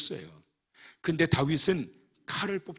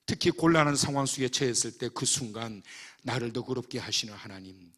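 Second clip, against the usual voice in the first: normal talking voice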